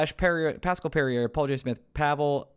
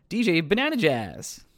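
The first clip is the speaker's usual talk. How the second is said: savoured name; 6 semitones higher than usual. Shown as a demonstration. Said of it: "That's so fun to say".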